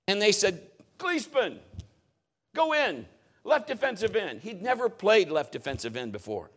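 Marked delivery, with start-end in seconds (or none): 1.0-4.4 coach calling out. Retold or imitated.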